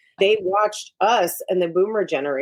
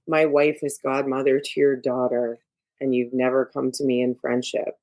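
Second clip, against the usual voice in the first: low, even, unemotional words; lightly voiced calm don, no emotion; flat calm Godfather; 4 semitones lower than usual. Describing Brando's Godfather to the host, flat and calm. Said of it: "it's very flat".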